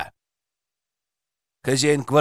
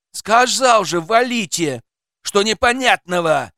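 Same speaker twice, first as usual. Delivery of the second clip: raised, higher, exasperated voice; irritated shout; 6 semitones higher, 4 dB louder than usual. Acted. Flat owner telling intruders to leave, irritated shout. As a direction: snap at them loudly. Armed man berates visitors.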